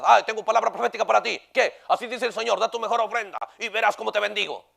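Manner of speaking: lightly voiced smug false prophet; a hint of a pompous fake prophet; mock false prophet. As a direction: parody the greedy prophet. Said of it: "Se la dan de profetas".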